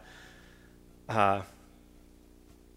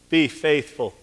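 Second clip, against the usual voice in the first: urging; 4 semitones higher, 8 dB louder than usual. Acted. Urging the suffering in prayer.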